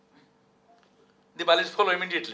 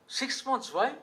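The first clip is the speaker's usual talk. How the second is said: incredulous king; 11 semitones higher, slower than usual. Retold or imitated. King again questions leave.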